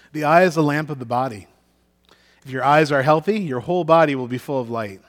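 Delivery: measured, solemn Bible reading; formal reading of scripture to a congregation. Acted. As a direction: read the passage with weight and pauses. Pastor reads scripture passage aloud.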